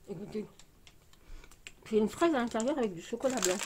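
talking while chewing chocolate; mouth full, chewing. Real, not acted. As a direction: lips pursed around food. Seen 1: pursed lips chewing the bitten chocolate while talking throughout.

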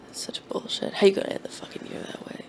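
indignant whisper; whispered outrage. Real, not acted. Cursing the year to his cohost, whispering. Reacting to Betty White's death.

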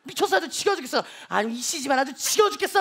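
imitating a mother scolding, mildly exasperated; mock motherly nagging, building a little; 혼내는 엄마. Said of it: "혼내기 시작합니다". (딸을 혼내는 엄마 흉내, 지겹다는 듯이)

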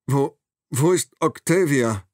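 high, slow, pleading little voice; squeaky frightened mouse. A narrator's reading. Captive doctor asking his kidnapper about his daughter, frightened squeak. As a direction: beg like a cartoon mouse before the cat. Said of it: "seine Stimme klingt wie die einer Zeichentrickmaus".

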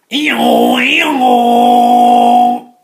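very loud high hee-haw; donkey bray. Acted. Donkey braying.

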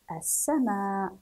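"السماء" slowly as as-samaa, final vowel long; slow careful reading. Shown as a demonstration. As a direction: read "السماء" measured and joined. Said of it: "نقرأ هذه العبارة". (قراءة "السماء" بتأنٍّ)

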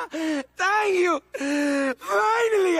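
villain overjoyed at his new costume. Acted. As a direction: gush with relief and delight.

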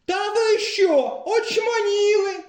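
різко вище й повільно, захлинаючись; аж захлинається від гніву; захлинаючись від обурення. A narrator's reading. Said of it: "аж захлинувся пан Крижан". (Крижан захлинається, значно вище й повільно)

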